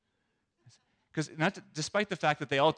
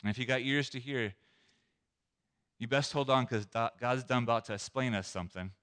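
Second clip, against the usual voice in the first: southern drawl. Shown as a demonstration. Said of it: "That's my attempt at a southern drawl".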